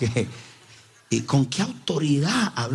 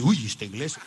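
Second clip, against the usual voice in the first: a nervous little laugh under the words; a frightened visitor, half-laughing; startled churchgoer. Retold or imitated. Scared newcomer in the back row, mock alarm. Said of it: "se asusta y dice".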